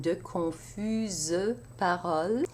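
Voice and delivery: confuses with its E said as a separate syllable; mute E sounded. Shown as a demonstration. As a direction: give confuses three syllables. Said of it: "feminine plural E S".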